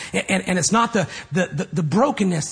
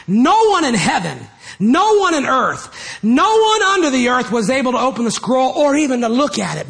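loud proclaiming; 3 semitones higher, 4 dB louder than usual. Acted. Reading the angel's verdict.

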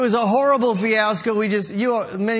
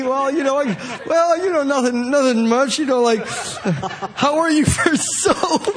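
higher, laughing evasive pitch; cagey salesman; 3 semitones higher than usual. Retold or imitated. Recruiter dodging a friend's question, laughing and evasive. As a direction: dodge the question, then spring the soap.

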